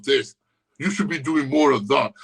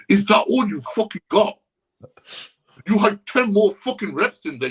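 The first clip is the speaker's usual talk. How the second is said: mock gym rant; 6 semitones higher than usual. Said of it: "scream in their fucking ears".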